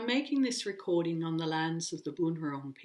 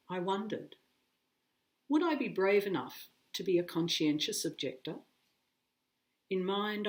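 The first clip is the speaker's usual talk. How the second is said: deliberate recital with emphatic phrase openings; measured, lightly formal poetry voice; poem reading; 2 semitones higher than usual. A narrator's reading. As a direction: read it as narrative verse, pausing after each phrase. Reads a poem aloud.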